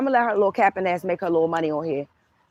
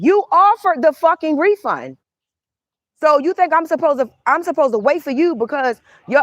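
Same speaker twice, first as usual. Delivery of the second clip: indignant; 5 semitones higher than usual. Real, not acted. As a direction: let the indignation rise and hit hard. Angry rant at the reader.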